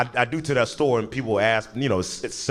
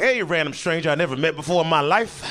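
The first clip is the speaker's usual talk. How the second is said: ends in a high excited squeal; dog-like excitement; 4 semitones higher than usual. Acted. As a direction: gush at a stranger like an eager dog. Acting creepy stranger dog-like.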